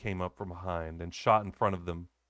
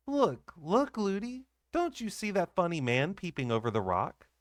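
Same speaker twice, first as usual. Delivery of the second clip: put-on high excited little girl; eager child; 7 semitones higher than usual. A narrator's reading. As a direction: point it out to nurse eagerly. Child pointing again.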